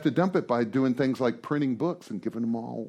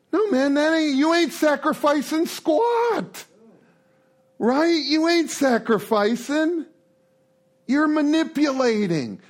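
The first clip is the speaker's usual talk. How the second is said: stern rebuke; 13 semitones higher than usual. Acted. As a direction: call out the manipulation, no mercy. Sponsor rebukes the manipulation.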